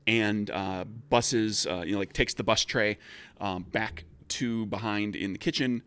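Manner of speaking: ordinary talk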